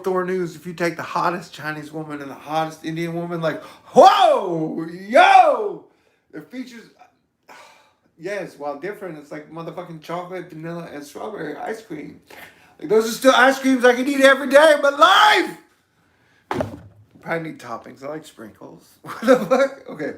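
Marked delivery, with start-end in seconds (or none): 3.9-5.8 a high, loud burst of delight; loud, high-pitched amazement; excited whoa. Real, not acted. Gushing over hottest women. 12.9-15.6 shouted high and loud; loud, high-pitched enthusiastic shout; excited shout. Real, not acted. Ice cream metaphor peak. 19.0-19.9 laughed out, high and loud; amused laughing exclamation. Real, not acted. Laughing at own tangent.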